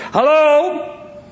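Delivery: high, slow questioning lilt; mock-innocent phone caller. Dad redials the same number, high mock-innocent voice. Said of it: "So he tapped it out again".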